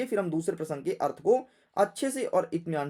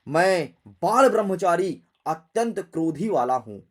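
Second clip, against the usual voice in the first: Parashuram; 3 semitones lower, 4 dB louder than usual. Acted. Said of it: "परशुराम जी अपने फरसे को देख करके बोले".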